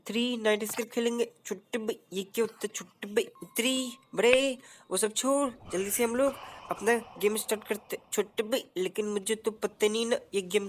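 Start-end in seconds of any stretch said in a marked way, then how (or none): 2.7-8.0 lightly voiced cheeky sidekick; Utri Bade voice. Answering character voice.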